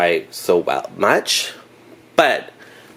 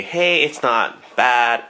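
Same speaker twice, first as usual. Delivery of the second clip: slow, mildly pleased "not bad"; upbeat shrug; 5 semitones higher, much slower than usual. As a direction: draw it out with a light lift. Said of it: "I'll give it a".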